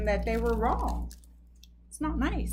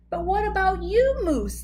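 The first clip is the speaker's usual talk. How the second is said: loud, rising question; 7 semitones higher, 4 dB louder than usual. A narrator's reading. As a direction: ask it all together. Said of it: "the Freds said at, as one".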